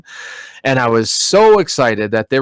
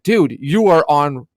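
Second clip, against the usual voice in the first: incredulous; 6 semitones higher than usual. Retold or imitated. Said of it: "It's like".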